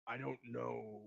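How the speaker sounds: hesitant, mulling it over; conflicted. Acted. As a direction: say it as if unsure. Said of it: "Seems a little bit conflicted".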